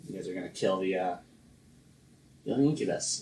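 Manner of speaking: put-on light Danish accent; slight Danish lilt. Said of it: "You're in the Danish voice".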